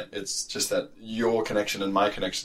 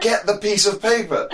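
much higher, louder, slow mock-scolding; exasperated rant; 11 semitones higher, 5 dB louder than usual. Telling passport refusers to get papers, exasperated. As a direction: spell it out to a fool. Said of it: "I look at it and I go".

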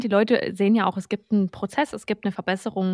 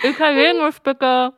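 put-on Italian accent; 5 semitones higher, 5 dB louder, slower than usual. Mock Italian request.

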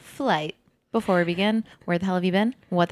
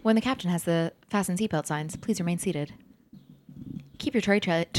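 soft, subtle in-flight announcement; calm cabin announcement voice; flight attendant announcement; 7 dB quieter than usual. Pretend. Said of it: "Nailed it".

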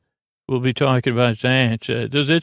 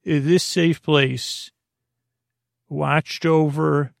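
mock ad copy; slower than usual. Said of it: "put a little bit in there and say".

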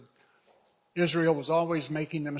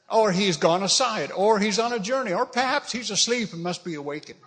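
higher, lively taunting list; mocking; 5 semitones higher, 4 dB louder than usual. Elijah taunting prophets about their sleeping god, mocking. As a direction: pile up mock excuses, lifting each one. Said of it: "he's mocking him".

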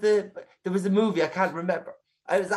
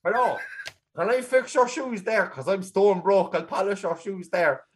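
slow, hammed-up shoeshiner pitch; shoeshiner character; slower than usual. Broke shoe polisher offering to fix shoes, slow put-on voice. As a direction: play a broke shoeshiner touting slowly. Acting a New York shoeshiner.

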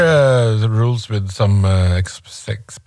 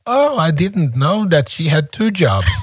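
calm reply; 5 semitones higher than usual. Retold or imitated. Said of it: "he would say very calmly".

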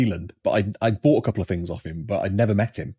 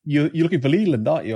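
knowing guess; 6 semitones higher, 3 dB louder than usual. Retold or imitated. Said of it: "And then he went".

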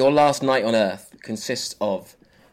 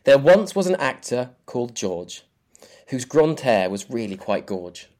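limerick recital. Pretend. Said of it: "here is your limerick".

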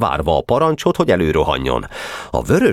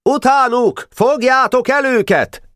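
high, urgent battle order; shouted command. A narrator's reading. Pásztor ordering his men after the runaways, shouted command. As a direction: send the troop charging with a high cry. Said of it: "Pásztor kiadta a jelszót".

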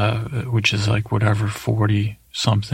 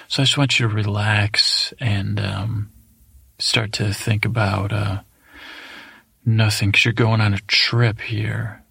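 guided meditation. Acted. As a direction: ease them into a daydream. Leads a mock guided meditation.

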